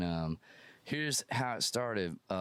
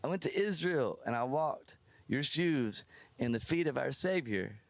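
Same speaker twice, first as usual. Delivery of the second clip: earnest fan; 5 semitones higher than usual. Retold or imitated. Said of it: "he goes".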